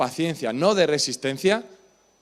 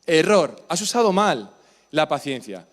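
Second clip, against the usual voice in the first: mock ad shout. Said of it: "Es que me encanta el error".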